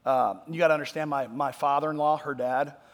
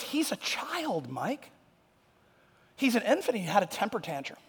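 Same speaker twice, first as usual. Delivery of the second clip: fiancée's amused verdict; 5 semitones higher, 5 dB quieter than usual. Retold or imitated. Voicing fiancée in story.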